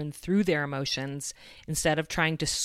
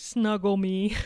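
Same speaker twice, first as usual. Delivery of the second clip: put-on a touch of teary little-girl voice, higher; tearful child's plea; 4 semitones higher, 4 dB louder, slower than usual. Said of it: "she said through her tears".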